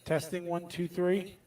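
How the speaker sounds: echoey distant mic; cave echo. Real, not acted. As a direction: sounds like in a cave. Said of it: "you sound like you're in a cave. You're a little echoey".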